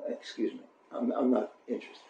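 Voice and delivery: hushed, breathy excuse me; whispered brush-off. Acted. Bride whispering to the suitor at the door, hushed refusal. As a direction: whisper him away from behind the door.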